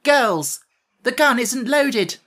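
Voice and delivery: loud, high, slow call to the army; rallying cry. Acted. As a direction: shout the good news to the girls. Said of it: "turned to her army and cried".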